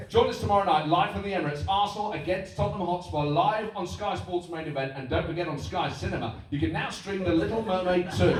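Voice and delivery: mild hyped promo read; football voice promo. Shown as a demonstration. Presenter promoting a cartoon, football voice. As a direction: plug a cartoon as if it's a derby. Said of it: "hear this now".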